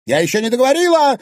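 high, fast angry shout; shouting after him. Acted. Wife calling after departing husband, angry shout. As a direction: yell it at his back. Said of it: "крикнула ему вслед Анфиса".

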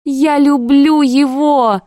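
кричит на всю квартиру; full-voiced cry. A narrator's reading. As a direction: blurt it out to the whole flat. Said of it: "кричу на всю квартиру".

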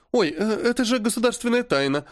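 high startled blurt; flustered oh, pitched high; startled oops. A narrator's reading. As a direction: catch yourself mid-slip. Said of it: "ойкнула Полина".

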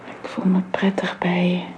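tender whisper. Acted. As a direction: say it gently, barely voiced. Tender moment between the pair. (teder gefluisterd)

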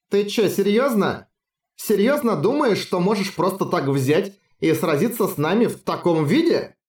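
incredulous scoff. Acted. Nico mocks incredulously.

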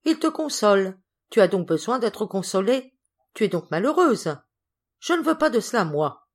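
irritated. Acted. Governess confronts the girl about her unhappiness, irritated. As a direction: insist with growing indignation. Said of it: "fort irritée".

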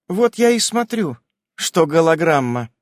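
high, loud stern wife; a stern, pointed reply. A narrator's reading. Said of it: "очень строгим голосом".

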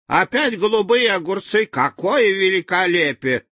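high, delighted exclaiming; excited. Acted. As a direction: gush over the cucumbers. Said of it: "говорил один живун".

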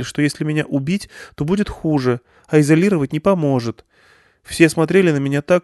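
put-on a scared girl telling what she overheard; young girl Irina, upset.

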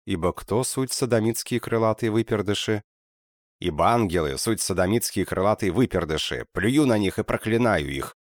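straining shout. Acted. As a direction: yell until the voice strains. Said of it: "надсаживался Хаустофер".

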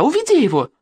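high shouted order; yelling for Egor to be led away; yelled command. A narrator's reading. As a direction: yell at him to take Egor away. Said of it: "орала я".

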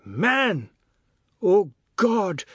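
high, loud cry of disgust; outraged exclamation. A narrator's reading. Boy being spat at from above, outraged exclamation. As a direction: exclaim in shocked protest. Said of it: "the god exclaimed".

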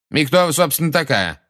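displeased, haughty. A narrator's reading. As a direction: look down on the witness as you ask. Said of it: "спросил Фадж недовольным и высокомерным тоном".

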